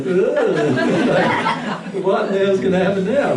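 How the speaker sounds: anxious parent. Retold or imitated. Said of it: "you're looking at it going".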